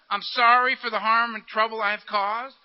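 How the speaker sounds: slow, deliberate acted amends; measured apology. Making amends for harm caused, slow measured apology. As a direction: spell out the apology slowly. Models a plain amends to someone.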